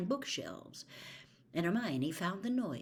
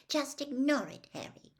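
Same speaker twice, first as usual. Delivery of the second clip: dignified; 8 semitones higher than usual. Acted. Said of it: "in a dignified voice".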